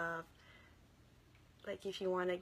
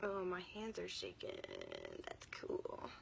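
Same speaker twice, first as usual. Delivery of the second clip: straining to talk; 8 dB quieter than usual. Real, not acted. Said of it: "I'm sorry if I seem like I'm straining to talk".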